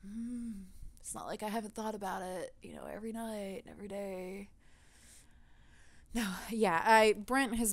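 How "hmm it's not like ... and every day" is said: sarcastic aside. Retold or imitated. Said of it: "And you're like".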